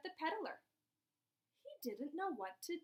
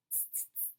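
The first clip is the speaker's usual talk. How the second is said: soft, voiceless "tss" noises; monkey chatter; 17 dB quieter, faster than usual. A narrator's reading. Monkeys answering the peddler back, soft hissy chatter. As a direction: tut softly like teasing monkeys. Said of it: "and they said".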